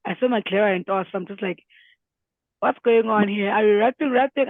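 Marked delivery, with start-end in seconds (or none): 2.6-4.5 mock disbelief. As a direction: retell a hyped, incredulous reaction. Acts out reaction to a new track.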